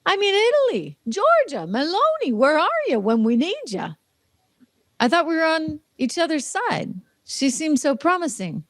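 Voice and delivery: a high, hammed-up jilted lament; mock heartbroken. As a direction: play the jilted friend calling out to Meloni. Mock heartbroken appeal to Meloni.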